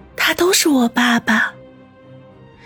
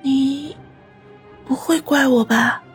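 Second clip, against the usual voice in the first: dying words. Acted. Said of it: "断断续续地说道".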